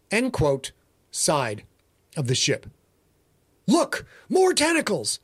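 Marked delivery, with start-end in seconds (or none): 3.7-5.2 screaming passenger. A narrator's reading. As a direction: shriek it out as a terrified passenger. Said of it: "screamed a passenger".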